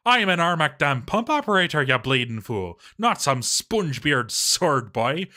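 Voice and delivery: insulted pump operator shouting at the overseer; indignant outburst. Acted. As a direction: bellow it like an insulted craftsman. Indignant dwarf quote.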